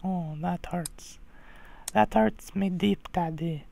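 mock hurt. Son answering daddy's insult, mock hurt. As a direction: play the hurt kid, hammed-up.

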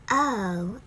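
o with mouth slightly open, pushed; o sound. Shown as a demonstration. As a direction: model the o. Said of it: "mouth slightly open".

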